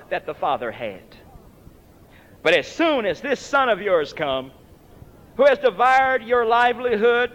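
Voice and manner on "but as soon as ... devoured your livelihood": building scorn, louder at the end; resentful accusation rising; scornful son. Retold or imitated. Elder brother accusing to father, building scorn. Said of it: "did not have the love for his brother".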